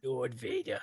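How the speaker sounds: low, soft, half-tried Emperor voice; a hint of Palpatine; Palpatine attempt. Trying the Palpatine voice, low understated Emperor. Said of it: "Palpatine voice".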